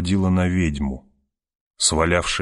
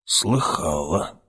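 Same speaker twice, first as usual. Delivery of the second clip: put-on creaky old woman; 4 dB quieter, slower than usual. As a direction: scrape the word out like an old hag. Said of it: "проскрипела старуха". (скрипучий старушечий голос)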